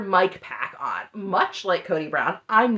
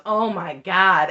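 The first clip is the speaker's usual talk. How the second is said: slow, drawn-out sarcastic oh my God; mock shock, dripping with sarcasm; 7 dB louder, much slower than usual. Imitating Jen reacting to Robin sobbing, sarcastic. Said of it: "And it's so sarcastic".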